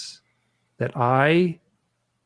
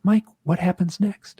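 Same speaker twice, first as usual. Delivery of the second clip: gentle prompting voice, higher and slow; Yvonne; 6 semitones higher than usual. Retold or imitated. Hypnotherapist prompting her client after the silence, slow and higher. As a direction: imitate a hypnotherapist carefully prompting, pitch lifted. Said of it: "you hear Yvonne's voice say".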